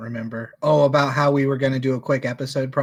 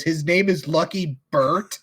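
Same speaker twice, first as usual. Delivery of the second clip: incredulous; 3 semitones higher than usual. Retold or imitated. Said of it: "Kevin was so incredulous".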